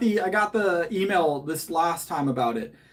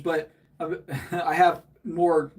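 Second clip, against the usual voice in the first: laughing; much slower than usual. Real, not acted. Laughs mid-sentence.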